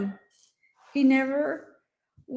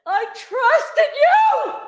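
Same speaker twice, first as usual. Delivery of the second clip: hurt and angry; 9 dB louder, much slower than usual. Real, not acted. Accusing the murderer, crying.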